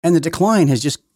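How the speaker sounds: loud, high indignant rant; outraged rant. Real, not acted. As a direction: build up the outrage. Ranting about the president.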